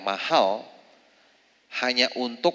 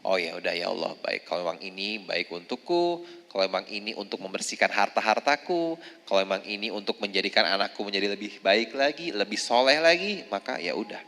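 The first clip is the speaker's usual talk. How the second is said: soft, quiet resigned acceptance; accepting prayer; 3 dB quieter than usual. Retold or imitated. Mother accepting her trial before God, soft surrender. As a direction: let it go gently, surrendering.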